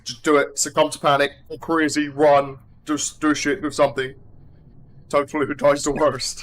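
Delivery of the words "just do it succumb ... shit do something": a bit louder, egging her on; mock urging. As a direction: hype her into panicking, half joking. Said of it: "this is me saying".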